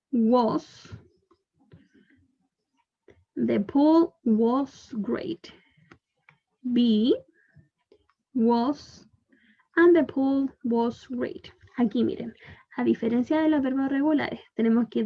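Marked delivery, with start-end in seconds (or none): 0.1-1.0 whisper. Real, not acted. Teacher whispers the past form. 3.4-5.5 each word slow and separate, for learners; slow model reading. Shown as a demonstration. Teacher reading the example to the class, very slow and clear. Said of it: "teacher models the sentence slowly". 9.8-11.5 slow model reading. Shown as a demonstration. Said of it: "teacher models the sentence slowly".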